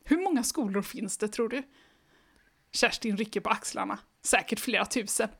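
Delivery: even, lively read-aloud pace; storybook reading voice; story narration. A narrator's reading. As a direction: read the children's book to the listener. Reads the book aloud.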